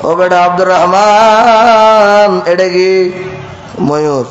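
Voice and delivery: put-on slow, drawn-out old father's call; old father asking. Aged father asks grown son about peacock, slow drawn call. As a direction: stretch the son's name like a frail old man.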